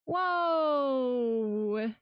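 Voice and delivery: high delighted whoa; surprised whoa. Real, not acted. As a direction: gasp of pleasant surprise. Reacting to donation.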